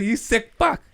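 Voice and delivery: high-pitched, scandalized outburst; imitated horrified buddy; appalled disgust. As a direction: accuse him in squealing disbelief.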